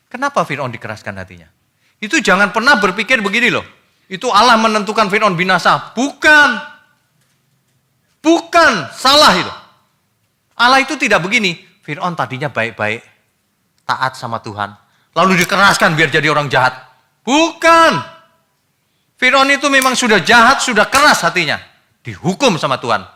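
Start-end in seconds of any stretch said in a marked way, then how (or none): 2.0-11.6 high, loud, forceful rebuke; preaching at full force; fiery preaching. Acted. Preacher denounces wrong thinking. 17.3-21.6 high, loud, forceful rebuke; preaching at full force; fiery preaching. Acted. Preacher corrects about Pharaoh.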